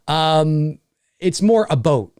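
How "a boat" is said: "a boat" with a rounded long O; regional "a boat" for about. Shown as a demonstration. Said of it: "you will hear that in certain parts".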